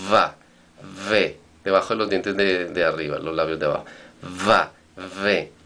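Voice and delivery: teacher modelling Va, ve after explaining lip placement; v sound drill. Shown as a demonstration. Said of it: "pones el labio de abajo".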